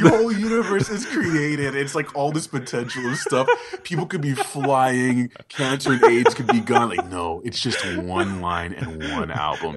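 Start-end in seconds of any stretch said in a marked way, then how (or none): 0.0-6.9 laughing. Real, not acted. Laughing through the imagined universe.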